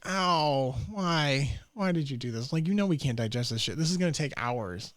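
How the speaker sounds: a stomach whining at its owner; lightly voiced pained stomach; mock whine from the gut; complaining stomach voice. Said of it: "my stomach's like".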